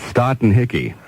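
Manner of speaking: stot and hickey, hot and sticky with first sounds swapped; spoonerism. Shown as a demonstration. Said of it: "spoonerize your weather forecast".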